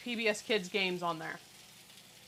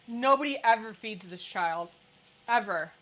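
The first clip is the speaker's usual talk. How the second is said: dry deadpan sarcasm, leaning on "Nobody" and "Ever"; deadpan sarcastic joke to viewers; 3 semitones lower than usual. Acted. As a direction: say "Nobody ever feeds this child" with mock gravity, then a flat "Ever.". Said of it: "If you can't tell that's sarcasm".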